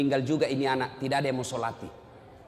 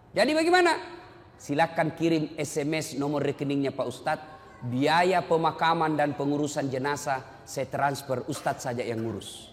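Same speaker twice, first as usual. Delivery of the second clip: cold indifference; 3 semitones lower than usual. Retold or imitated. Indifferent son on phone.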